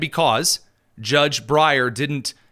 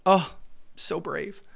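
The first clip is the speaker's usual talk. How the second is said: sarcastic; 4 semitones higher, 5 dB quieter, slower than usual. Retold or imitated. Sarcastic about Padilla.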